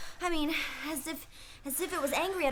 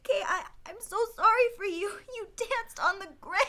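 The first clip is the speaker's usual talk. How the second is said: frightened; 4 semitones higher, 3 dB louder than usual. Acted. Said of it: "stop talking like that".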